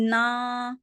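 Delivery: نا with the long vowel leaking into the nose; nasalised wrong نا. Shown as a demonstration. Teacher shows students the common mistake, nasalised نا. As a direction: say نا as if it ended in noon ghunna. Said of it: "کیسے اس کی sound بن جاتی ہے".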